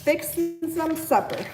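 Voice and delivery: slow, put-on Tennessee drawl; Tennessee accent. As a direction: stretch it out like a Tennessee local. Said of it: "Use your best Tennessee accent".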